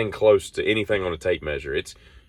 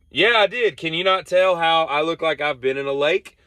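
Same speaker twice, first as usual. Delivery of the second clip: high, sarcastic exasperated voice; sarcastic exasperation; 8 semitones higher than usual. Retold or imitated. Answering car owner while soaked, high sarcastic. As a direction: sneer it back, soaked and annoyed. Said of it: "And I'm like".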